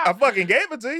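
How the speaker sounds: hammed-up yell; mock shout. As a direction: yell it like you won the argument. Retold yelling at wife.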